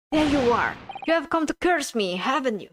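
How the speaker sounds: high, accusing and jittery; paranoid prisoner. Acted. Prisoner accuses the lawyer of being a ghost, high paranoid. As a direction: point at him like he's a ghost.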